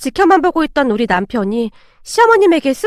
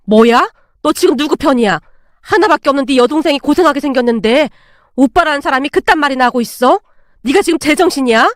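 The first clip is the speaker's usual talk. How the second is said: angry scolding. Acted. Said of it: "잔뜩 화가 나신 채 소리치고".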